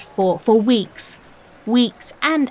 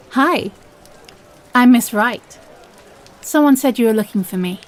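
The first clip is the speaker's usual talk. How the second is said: rehearsed opener; 3 semitones higher, 5 dB louder than usual. Acted. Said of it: "these are my lines".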